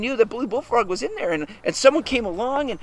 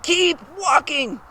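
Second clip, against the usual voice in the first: slow, spaced-out, higher-pitched order; firm instruction; 4 semitones higher, much slower than usual. Acted. Mister Bear urges the cubs on, firm and slow. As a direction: draw out each word as a command.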